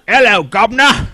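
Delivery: a high, laughing "Hello, governor" in fake Cockney; mock the bad accent while cracking up. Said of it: "All we got is".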